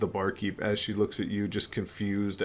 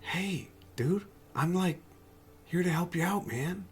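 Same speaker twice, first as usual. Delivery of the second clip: stoner voice; 9 semitones higher, 3 dB quieter than usual. Acted.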